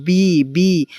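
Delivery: বি, বি said twice, clearly, as a consonant; বি, বি, crisply spelt out; letter B sound. Shown as a demonstration. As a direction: sound out বি to show it starts with a consonant. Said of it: "তোমরা বিডিও".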